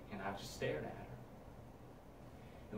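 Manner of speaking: slow eerie whisper. Acted. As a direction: drag it out hushed.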